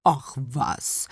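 bubbly fish voice; blub, then modestly wave off the thanks; embarrassed old carp, burbling; bashful carp. A narrator's reading. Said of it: "wehrte Bommel verlegen ab".

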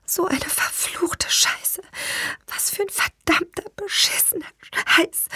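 whispered cursing. A narrator's reading. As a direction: curse under your breath, word by word. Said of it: "flüsterte ich nur".

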